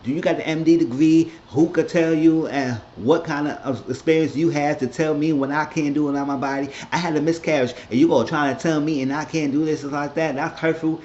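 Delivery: understated imitated heated complaint; mild mock indignation. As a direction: keep needling her wounded tone. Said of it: "Ashley was getting heated".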